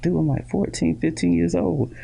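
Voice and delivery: high incredulous protest; mock protest. Teen son protesting he's too young, high and incredulous. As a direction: whine it like a startled teen.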